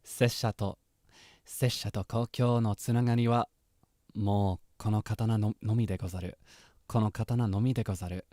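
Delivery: steadier solemn samurai line; samurai quote, retry. Acted. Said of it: "I wanna try that again".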